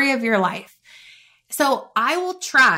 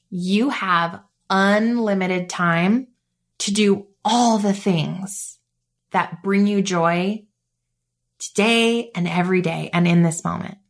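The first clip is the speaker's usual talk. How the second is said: calm mantra; 3 semitones lower than usual. Shown as a demonstration. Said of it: "my favorite mantra".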